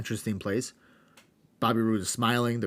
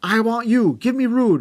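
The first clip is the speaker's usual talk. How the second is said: higher, louder shouting trash talk; hammed-up wrestling promo; 10 semitones higher, 7 dB louder than usual. Host acting out wrestler's mic rant, loud mock shouting. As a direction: yell it into the mic at your rival. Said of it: "and A J says".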